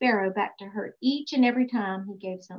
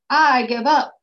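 louder exasperated outburst; shouting; 2 semitones higher, 8 dB louder, slower than usual. Acted. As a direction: throw up your hands and shout it. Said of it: "the king shouted".

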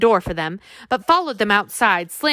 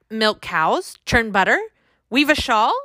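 politely impatient; 2 semitones higher than usual. Acted. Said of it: "Augusta asked impatiently".

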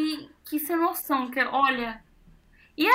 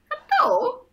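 sheepish answer; 12 semitones higher than usual. Retold or imitated. Her own retold answer.

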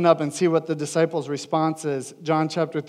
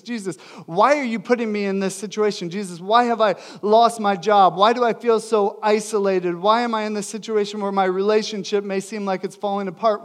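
higher, pleading challenge; rebuking questions; 4 semitones higher, 4 dB louder than usual. Acted. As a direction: fire complaints upward as questions, pressing each "why". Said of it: "we could be rebuking Jesus".

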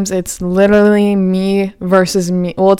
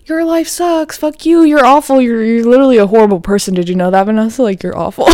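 a higher, meaner inner-critic voice; nasty inner critic; 4 semitones higher than usual. Retold or imitated. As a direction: sneer like the hater in your head. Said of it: "naggy ass bitch in the back of my head being like".

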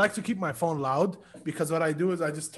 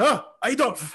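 mock greeting; 7 semitones higher than usual. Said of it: "I was just like".

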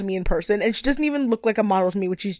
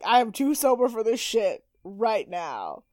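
deadpan; 4 dB quieter, slower than usual. Retold or imitated.

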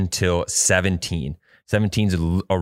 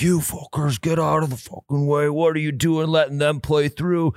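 pitched-up, mock-angry golfer yelling at them; half-acted swearing rant from an annoyed golfer; angry old golfer cussing them out, retold with a raised voice; imitated cussing out; 8 semitones higher than usual. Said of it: "Just cussing us out".

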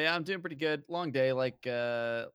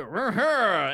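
mock Southern grunt; 8 semitones higher, 8 dB louder than usual. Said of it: "we could just go".

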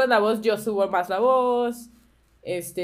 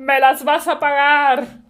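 silky menacing villain; 5 semitones higher, 8 dB louder, slower than usual. Acted. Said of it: "retribución".

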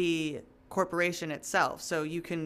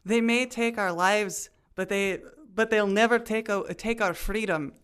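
stumbling Scottish brogue, a bit raised; fumbling Scottish accent; 3 semitones higher, 4 dB louder than usual. Acted. Host tries Braveheart line in Scottish accent, fumbling. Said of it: "I couldn't even s-, get the line out".

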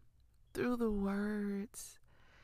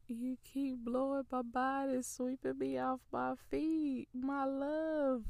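joyful laughing prayer. Real, not acted. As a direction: overcome with joy, laughing as you pray.

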